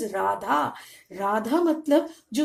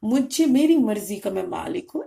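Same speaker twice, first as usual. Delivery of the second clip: lightly acted arrogance, firm emphasis; a touch of mock self-importance; arrogant man; 4 dB louder than usual. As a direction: declare it like a self-important boss, half in mockery. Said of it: "ये ना एरोगेंसी".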